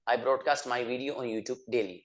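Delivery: very slow, every word spelled out for learners; slow model sentence. Shown as a demonstration. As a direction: say it slowly so students can repeat. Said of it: "teacher models English sentence". (बहुत धीरे, साफ़ बोलकर)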